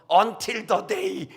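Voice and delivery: long, lingering promise; very slow, lingering hopeful line; drawn out. Acted. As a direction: stretch every word very slowly. Preacher quotes hopeful encouragement.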